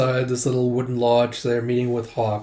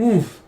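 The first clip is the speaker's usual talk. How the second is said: high startled grunt; imitated grunt of someone held; muffled oof; 8 semitones higher, 3 dB louder than usual. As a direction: give a short, higher-pitched oof. Man with mouth covered.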